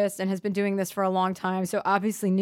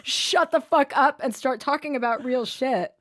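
mock therapist scheming; 6 semitones higher, 3 dB louder, slower than usual. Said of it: "He's like".

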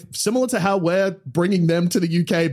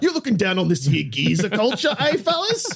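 put-on botched British geezer accent, veering Australian; badly faked British accent with the end jumping up high; 3 semitones higher than usual. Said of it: "sounded more like an American doing an Australian accent".

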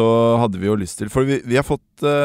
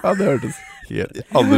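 shouting; 10 semitones higher than usual. Real, not acted. Reacting loudly to the noise.

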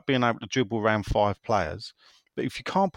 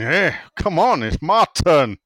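impatient listener; 5 semitones higher, 7 dB louder than usual. Retold or imitated. Host voicing a listener impatient at being interrupted, mock whine. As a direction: demand your turn like a kid left out. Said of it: "He's going".

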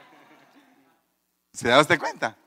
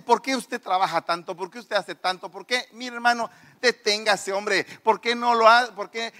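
higher, softer mock pleading; exasperated pleading; 4 semitones higher, 4 dB quieter than usual. Church members urging the busy preacher to stop, mock exasperation.

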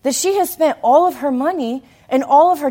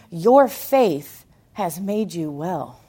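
slow tender blessing; 5 semitones lower, much slower than usual. Acted. Jesus's closing words to woman.

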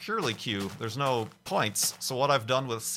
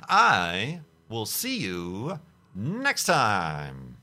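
very slow sung-out goodbye; drawn-out sign-off; 5 dB louder, much slower than usual. Real, not acted. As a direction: stretch the goodbye out. Signature outro sign-off.

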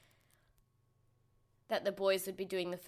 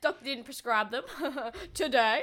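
laughing imitation; 4 semitones higher, 5 dB louder than usual. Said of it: "I'm gonna try and imitate her".

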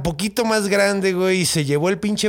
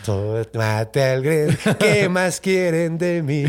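smug and happy; slower than usual. Retold or imitated. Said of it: "así súper contento".

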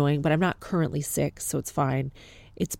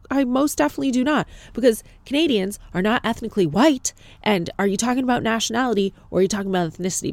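higher, fast indignant comeback; indignant retort; 6 semitones higher, 3 dB louder, faster than usual. Retold or imitated. Patient correcting the receptionist, indignant retort. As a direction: argue back briskly, pitch raised.

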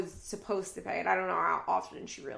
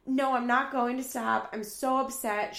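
louder, higher mock scream crying; retold screaming; 5 semitones higher, 4 dB louder than usual. Janelle refusing to stop the car, a louder mock scream. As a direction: yell it back at him, half-acted. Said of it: "And Janelle is screaming".

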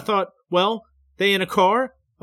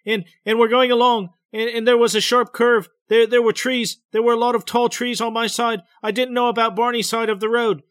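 higher and louder, stammering fear; frightened telling; 6 semitones higher, 4 dB louder than usual. A narrator's reading. Betty describing the men in the road, frightened. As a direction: push through the memory, scared.

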